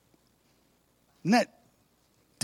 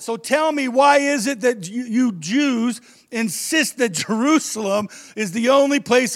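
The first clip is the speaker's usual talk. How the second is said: astonished; 4 semitones higher than usual. Acted. Astonished woman voiced.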